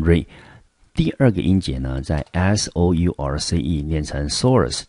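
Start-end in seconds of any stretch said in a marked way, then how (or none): 0.0-0.3 the first syllable re, kept short and weak. Shown as a demonstration. Teacher models the unstressed first syllable re. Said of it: "我们念成re". 4.3-4.8 source said slowly, as the stressed syllable. Shown as a demonstration. Teacher models the stressed second syllable source. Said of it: "重音节就在第二个音节".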